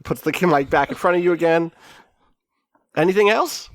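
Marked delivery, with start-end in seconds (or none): 3.0-3.7 high interviewer prompt, lightly acted; announcer. Announcer offering the Count the mic, lightly hyped.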